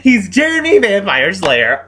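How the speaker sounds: slow, laughing through the words; half-laughing, half-crying; laughing disbelief. Real, not acted. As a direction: laugh it out in despair. Laughing at ridiculous plot.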